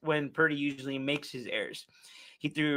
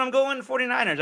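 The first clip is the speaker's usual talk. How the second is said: excited pick, pitched up; 8 semitones higher than usual. Real, not acted. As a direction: announce the pick with a high lift. Announcing the pick.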